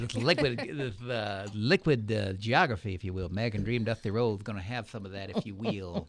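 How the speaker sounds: a hint of the American Dream cutting a promo; Dusty Rhodes impression. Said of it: "Do you know who I'm doing".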